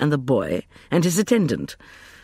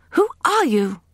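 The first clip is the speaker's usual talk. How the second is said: high, loud demand; 13 semitones higher, 5 dB louder than usual. A narrator's reading. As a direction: challenge him sharply. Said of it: "she demanded".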